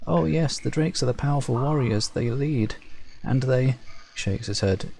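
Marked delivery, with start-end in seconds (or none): 0.1-3.8 meek servant, a bit higher, resigned; timid Servile farmer. Acted. Servile farmer telling the Shaper he was ordered, meek and resigned. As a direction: explain the orders meekly.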